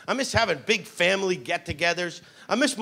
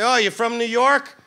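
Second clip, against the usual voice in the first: mock Boston accent; 2 semitones higher than usual. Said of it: "tease people from Boston".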